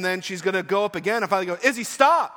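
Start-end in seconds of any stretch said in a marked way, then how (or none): 1.6-2.3 full alarmed yell, much higher and louder still; loudest yell. Retold or imitated. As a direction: bark the name and stop as the curb hits. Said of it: "louder and louder as you approach that curb".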